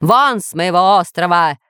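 mildly booming order to leave; understated villain's roar; thundering. Acted. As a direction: banish them as an angry overlord. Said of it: "гремел сверху голос повелителя".

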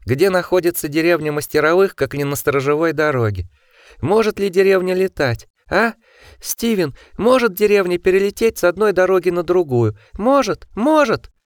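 high, sneering furious questions; mock him, voice rising to a shriek; shrill mocking rant. A narrator's reading. Osmond mocking Steven.

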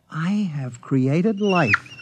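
slow, solemn and proud; grand proclamation. Acted. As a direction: announce your triumph slowly. Proud creator moment.

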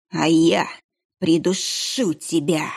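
slow, hissing monk's menace; snake-like hiss. Acted. Sinister monk threatens the kitchen boy, slow hiss. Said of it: "змеиное шипение".

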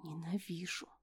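whispered through teeth with spite; angry hiss. Acted. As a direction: hiss the hatred, no voice. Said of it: "процедила со злостью".

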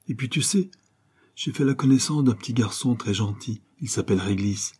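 put-on a small boy gushing about his new friend; little boy. Petit garçon raconte son nouvel ami à maman, voix enfantine enjouée.

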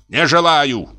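high-pitched outraged refusal; angry cry. A narrator's reading. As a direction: cry out in indignation, volume held back. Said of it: "крикнул он и стукнул кулаком по столу". (возмущённый выкрик)

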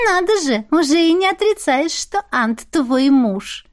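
high and teasing, drawn out slowly at the end; sly teasing familiar; snide drawl. Acted. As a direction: needle her with a slow sly drawl. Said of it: "Ехидно протянула Ларинь".

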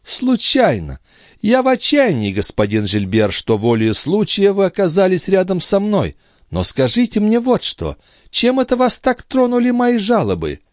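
high, sharp noblewoman's voice; indignant young lady. A narrator's reading. Andrea scolds Gilbert for eavesdropping, indignant. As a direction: pounce on it with disdain.

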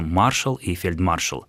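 маршал and фельдмаршал stressed before the last syllable; non-final stress. Shown as a demonstration. Explaining the exceptions to a listener, маршал stressed on мар. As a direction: keep the final -шал unstressed in маршал and фельдмаршал. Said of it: "ударение будет падать не на последний слог".

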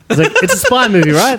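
spy movie voice. Acted. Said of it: "This is my spy movie voice".

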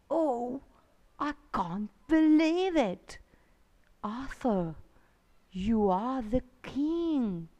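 breathless hushed name; awed whisper. Acted. Merlin whispers Arthur's name in wonder.

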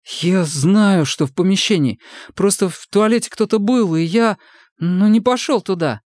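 high, anxious pleading voice; a scared boy talking fast to save himself; frightened young recruit. A narrator's reading. Сомик оправдывается перед сослуживцами, испуганно и высоко.

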